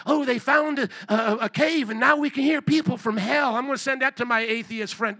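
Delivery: mock gullible excitement. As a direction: play the over-eager video sharer. Mimics gullible video sharer.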